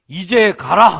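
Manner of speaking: very loud, menacing, wrathful angry delivery. Imagining god's spoken line in a film script, angry, dangerous commanding tone. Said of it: "노엽고 위험에 찬 어조로".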